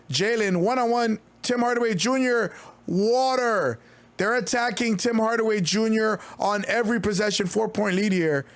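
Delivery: quick, lively game call; play-by-play call. Acted. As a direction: call the action as it happens. Live play-by-play calling.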